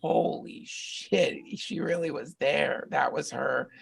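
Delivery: slow, hushed realisation, breath only at first; awed whisper. Retold or imitated. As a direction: let it dawn on you slowly. Retold moment of realisation.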